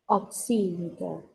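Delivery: "oximeter" with the accent on its second syllable; stress on SI. Shown as a demonstration. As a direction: say "oximeter" as ok-SI-mi-ter. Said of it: "Como si llevara una tilde". ("oximeter" como con tilde en "si")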